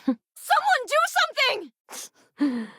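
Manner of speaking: high, alarmed cry for help; calling for help. Acted. Bystander begs the crowd to act, high alarmed cry.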